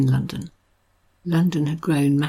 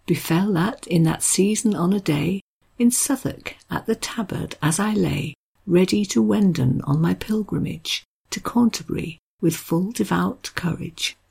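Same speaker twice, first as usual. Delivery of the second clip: put-on lilting, raised recital of old verse, slowing at the end; Middle English read as written; 2 semitones higher than usual. Shown as a demonstration. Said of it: "I can't pretend I can do the accent, but I'm gonna read it as it's written".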